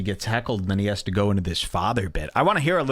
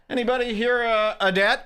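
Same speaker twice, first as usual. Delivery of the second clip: much higher, hammed-up crowd question; mock comic voice; 11 semitones higher than usual. Mocking comics who poll the crowd, high and hammy. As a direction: parody a hack comic fishing for claps. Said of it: "They go".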